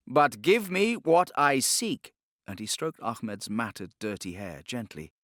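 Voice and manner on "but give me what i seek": slow, higher, louder smooth menace; silky Inquisitor. Acted. Torquemada bargaining for the boy, silky menace. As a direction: coax with velvet threat.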